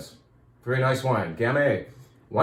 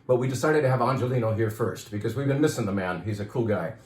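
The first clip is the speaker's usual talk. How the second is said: winded and dry-throated; out of breath. Real, not acted. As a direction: speak while short of breath. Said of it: "I'm out of breath".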